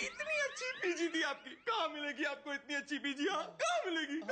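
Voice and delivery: insistent, wailing protest; agitated yelling. Acted. Neighbour asking where they will find such a lodger, yelling. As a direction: press the question like a distressed neighbour. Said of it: "तू क्यों इतना चिल्ला रहा".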